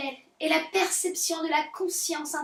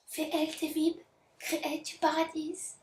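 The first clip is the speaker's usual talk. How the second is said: put-on soft English in a heavy French accent; thick French accent; 4 dB quieter than usual. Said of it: "oh, excusez mon accent". (accent français très marqué)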